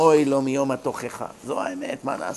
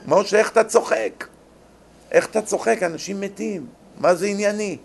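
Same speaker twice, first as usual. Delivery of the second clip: scolding friend, laughing; 4 semitones higher than usual. Retold or imitated.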